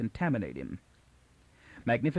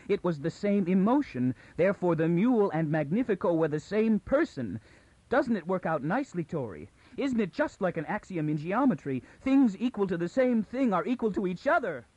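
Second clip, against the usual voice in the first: near hysteria; 8 semitones higher than usual. Acted. Bayta reasoning out the mule's identity to Toran, near hysteria. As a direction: pitch climbing, fighting to stay composed. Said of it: "She was at the edge of hysteria".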